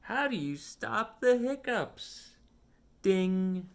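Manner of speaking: lively storybook read with voiced characters; reading to children. Reading a picture book aloud to a young child, animated storytime voice. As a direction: read it like storytime for a little one.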